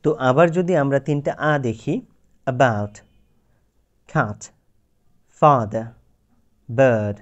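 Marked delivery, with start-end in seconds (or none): 2.5-7.2 about, cat, father, bird each with its own vowel; four a sounds. Shown as a demonstration. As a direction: slowly contrast the four vowels. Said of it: "এই চারটা আ যদি আপনি উচ্চারণ করেন".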